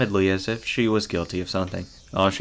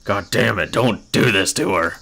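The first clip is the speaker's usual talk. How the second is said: exasperated scolding; 4 dB louder than usual. Pretend. Player scolds the game's hero.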